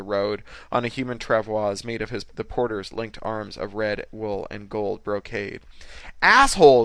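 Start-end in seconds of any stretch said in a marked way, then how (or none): 6.2-6.8 high, furious shout; hollering. A narrator's reading. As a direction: holler it at full voice, outraged. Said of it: "she was hollering".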